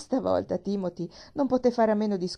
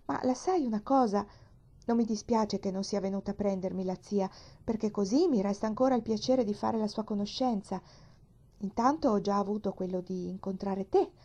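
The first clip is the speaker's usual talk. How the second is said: cheerful. Acted. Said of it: "la bambina continuò allegramente".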